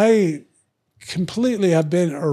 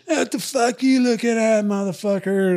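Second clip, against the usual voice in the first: higher, aggressive street challenge; imitating an angry thug; 6 semitones higher than usual. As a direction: throw it out like a pumped-up guy looking for a fight. Voicing the angry boyfriend.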